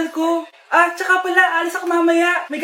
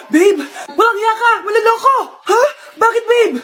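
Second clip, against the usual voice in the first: angry shouting; 3 semitones higher, 4 dB louder than usual. Acted. Girlfriend breaking up angrily.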